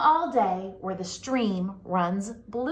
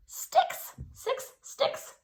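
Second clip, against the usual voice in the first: whisper; 3 dB quieter, much slower than usual. Acted. Whispered answer, playful.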